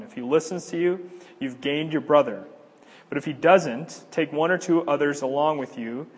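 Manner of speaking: reading scripture from the pulpit to the congregation. Acted. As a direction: proclaim the verses to the room. Reads Matthew eighteen aloud.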